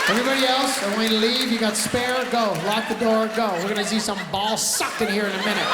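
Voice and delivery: mock-serious barked instructions; commanding teacher. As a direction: clear the room loudly. Acted teacher clearing the room.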